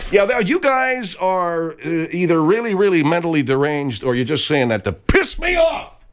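hammed-up angry rant; mock outrage. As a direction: pretend to blow up at them. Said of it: "I know you were kidding right there".

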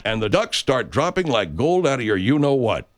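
folksy pitchman selling duck calls; radio ad read. Acted. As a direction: sell it like a cheesy radio ad.

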